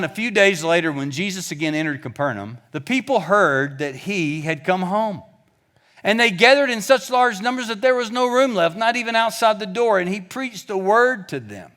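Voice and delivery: steady, measured Bible reading; scripture reading. Acted. Preacher reading Mark chapter two aloud to the church. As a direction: read the passage out to the congregation.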